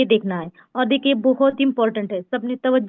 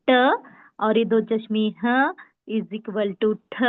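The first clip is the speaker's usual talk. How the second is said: slow repeat demo; slower than usual. Shown as a demonstration. Teacher repeating the ठ rule slowly for students. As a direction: repeat the equation slowly for the class. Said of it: "ठ sound हो रहा है".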